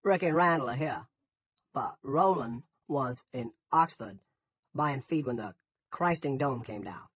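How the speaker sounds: loud, slow Yankee farmer; thick Yankee accent. A narrator's reading. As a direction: labour through it in thick Yankee. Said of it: "In his thick Yankee accent".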